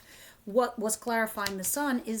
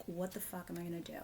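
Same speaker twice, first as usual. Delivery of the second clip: much softer, muttered hopeless question; despairing mutter; 3 semitones lower, 10 dB quieter, faster than usual. Retold or imitated. Reader voicing a worried caregiver, muttering softly. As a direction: mutter it like you've given up. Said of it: "you're wondering, like".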